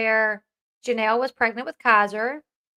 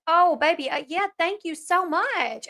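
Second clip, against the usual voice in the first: lightly acted, higher-pitched motherly thanks; a touch of tender, drawn-out gratitude; mildly gushing mom; 5 semitones higher than usual. Mom answering the son who offered to help, mildly gushing. Voices ideal grateful mother's reply.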